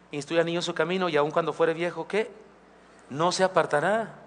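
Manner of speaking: pause, then "No se apartará" rising; pause before the end. Shown as a demonstration. Pastor quotes proverb, pausing for congregation. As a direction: stop at "¿qué?" and let them finish. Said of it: "Porque el texto dice".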